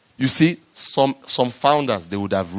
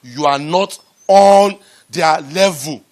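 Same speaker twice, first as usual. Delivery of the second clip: self-reminder; 4 dB louder than usual. Retold or imitated. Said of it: "I kept on reminding myself".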